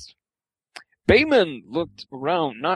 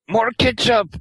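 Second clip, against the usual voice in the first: put-on higher-pitched demanding boy voice; pouting young boy; 7 semitones higher, 4 dB louder than usual. A narrator's reading. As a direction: call out like a pouty little boy. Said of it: "the young boy say, pout".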